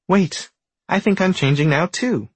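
high, loud excited tadpole; excited shout. A narrator's reading. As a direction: shout it with thrilled wonder. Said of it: "shouts the tadpole excitedly".

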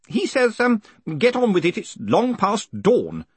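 high-pitched, hesitant messenger; clerk calling out. Acted. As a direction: relay the order across a crowd. Clerk relays message from crowd.

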